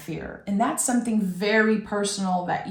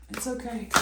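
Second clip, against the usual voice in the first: softer, near-hushed it's okay; repeated it's okay, much quieter; soft reassurance; 4 semitones higher, 9 dB quieter, faster than usual. Real, not acted. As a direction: let it fall away tenderly.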